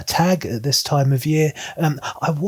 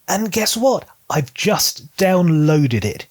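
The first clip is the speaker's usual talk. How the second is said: playful reveal; 6 semitones higher, slower than usual. Real, not acted. Teasing reveal to viewers.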